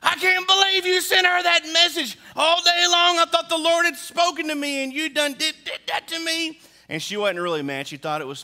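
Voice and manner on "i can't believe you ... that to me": much higher, louder, squealing wife laughing. Retold or imitated. Wife laughing at husband's trick, much higher and louder. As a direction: shriek it through laughter at being tricked. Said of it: "I just start laughing".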